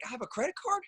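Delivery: high incredulous question; retold disbelief. Caller asking the rep in disbelief, high rising question. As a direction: replay the stunned question, pitch up.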